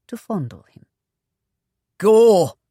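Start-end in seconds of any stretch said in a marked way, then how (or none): 2.0-2.6 much louder whooping call; rowdy shout. Acted. A brigand cheers Ruark on as she flirts, loud. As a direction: hoot it across the table. Tavern men egging Ruark on.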